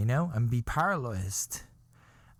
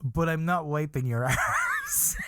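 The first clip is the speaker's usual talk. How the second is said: laughing through the quote; slower than usual. Retold or imitated. Quoting girlfriend's refusal, laughing.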